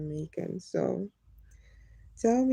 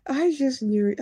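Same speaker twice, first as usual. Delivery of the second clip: laughing; 5 semitones higher, 4 dB louder than usual. Real, not acted. Laughs at sleeping viewers.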